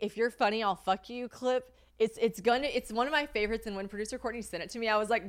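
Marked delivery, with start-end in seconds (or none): none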